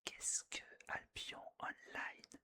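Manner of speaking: close-mic ASMR whisper; right in your ear. Real, not acted. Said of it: "A S M R". (chuchotement tout près de l'oreille)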